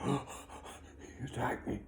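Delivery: slow, breathy mock complaint; mock-hurt whine; whiny fake victim. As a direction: play the rider crying foul.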